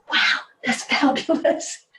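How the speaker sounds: breathy, slow, hushed admiration; hushed wow. Retold or imitated. To a panel presenter, an awed hushed wow.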